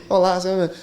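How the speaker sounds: lightly mocked newscaster greeting; a touch of on-air intonation; journalist intonation. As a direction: open like a regional news presenter. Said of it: "A entonação".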